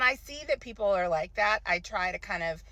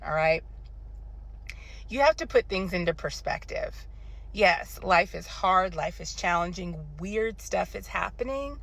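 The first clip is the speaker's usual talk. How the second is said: calming advice. Real, not acted. Calming the audience.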